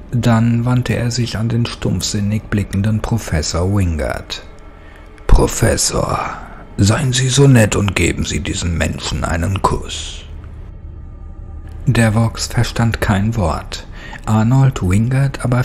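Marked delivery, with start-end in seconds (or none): 5.3-10.2 mocking creature command. Devon orders the undead professor with sinister politeness. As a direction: order the kiss with cruel courtesy.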